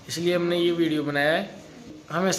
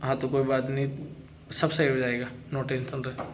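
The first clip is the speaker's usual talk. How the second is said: reassuring; 6 semitones lower, 9 dB quieter than usual. Real, not acted. Reassuring crying wife.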